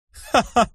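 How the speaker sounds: high mocking ha-ha; short laugh. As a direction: laugh out in agreement. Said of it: "засмеявшись".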